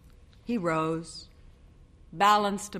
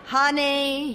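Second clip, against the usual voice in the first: pleading husband; 9 semitones higher, 4 dB louder than usual. A narrator's reading.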